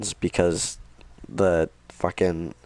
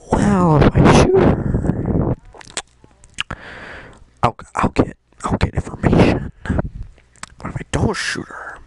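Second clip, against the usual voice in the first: strained high, slow, breathy voice; mock panicked weighing of options; high squeaky dithering; 10 semitones higher, 7 dB louder, slower than usual. Connor's inner debate.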